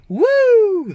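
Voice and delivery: high, loud falsetto whoop; stadium falsetto woo. Shown as a demonstration. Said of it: "It's that voice, like if you're at the stadium".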